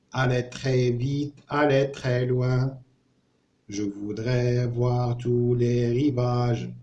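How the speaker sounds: slow, connected line-by-line reading; reading without rhythm. Shown as a demonstration. Teacher rereads the travel poem without rhythm, slow even reading. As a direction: read each verse slowly as one phrase, pause between lines. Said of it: "نقراو هذا حاليًا بلا إيقاع".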